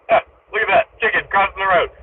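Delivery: high, loud, delighted callout; excited. Real, not acted. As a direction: exclaim it with glee. Excited repeat of chicken sighting.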